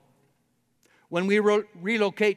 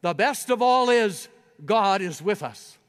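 raised high and loud, a dying man's cry; cried out; 4 semitones higher, 6 dB louder than usual. A narrator's reading. Preacher reading Wesley's dying words, cried out loud. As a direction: cry it out with the last of his strength. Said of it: "he cried out".

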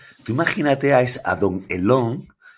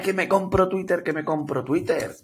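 tipsy boasting Elon; 7 semitones higher than usual. Retold or imitated. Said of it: "esto es Elon con sus colegas".

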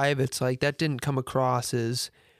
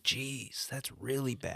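muttered disgust; 10 dB quieter, slower than usual. Retold or imitated. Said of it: "it's like".

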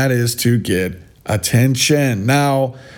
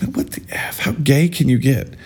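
breathy whisper, disbelieving; whispered incredulous aside. Real, not acted.

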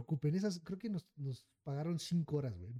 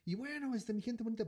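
mc announcer voice; 6 semitones higher than usual. Retold or imitated. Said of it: "empieza a decir".

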